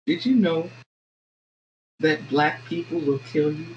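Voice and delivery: calm, measured retold threat, with pauses. Proper Southern mother warning a white lady, calmly. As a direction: deliver the threat evenly and unhurried, imitating her. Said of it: "just calmly looked at this white lady and said".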